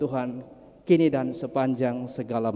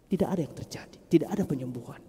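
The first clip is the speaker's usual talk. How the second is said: whisper; faster than usual. Acted. Repeats point in dramatic hush.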